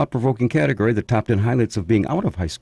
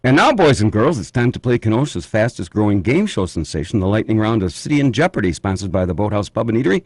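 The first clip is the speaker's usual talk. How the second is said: put-on booming kids show opener. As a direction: announce it like a kids' TV host.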